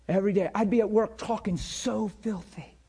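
ordinary delivery

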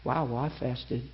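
low, soft, slow private thought; quietly proud, as if said to oneself; inward boast. Retold or imitated. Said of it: "but in your heart say".

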